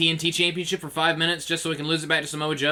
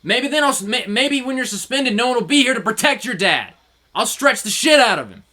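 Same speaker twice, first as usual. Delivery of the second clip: high, loud taunt; mocking heel taunt; taunting villain; 7 semitones higher, 4 dB louder than usual. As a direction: goad him, sneering from a safe distance. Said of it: "And Zack's like".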